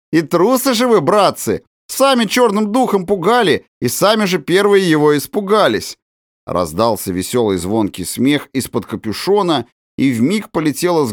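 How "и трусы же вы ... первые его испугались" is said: high teasing cheer; merry mocking. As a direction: tease them with glee. Prankster mocking scared friends. (весело, насмешливо)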